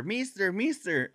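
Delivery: put-on high, slow pleading kid voice; begging kid. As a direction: drag it out like a begging child.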